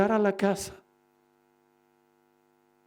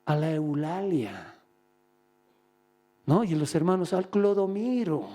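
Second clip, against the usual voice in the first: lazy excuse-making. Acted. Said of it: "cuando escuchen esa voz".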